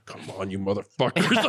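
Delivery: low voice, lightly put on; a hint of a competitive dad, half laughing; imitating dad. Dad urging on his son's derby car, lightly imitated. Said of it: "my dad's like".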